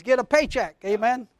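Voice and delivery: ordinary talk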